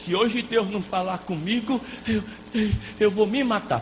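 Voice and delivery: hammed-up plea, tripping over the words; mock desperate ultimatum. Mimics churchgoer pressuring God.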